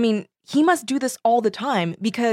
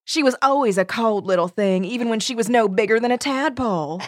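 put-on Southern accent; 2 semitones higher than usual. Junebug gossiping about the child, Southern accent. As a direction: sneer it like a Southern society aunt. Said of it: "That was an excellent accent".

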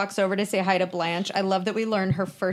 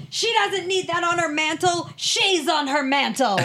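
high-pitched mock yelling; imitating a character's outburst, pitched way up; imitated yell; 8 semitones higher than usual. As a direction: act out an indignant yell without much volume. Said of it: "Rose stands up and yells".

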